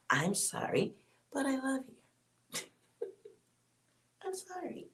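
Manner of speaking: giggling through a sorry, pitch jumping up on the last one; laughing apology. Real, not acted.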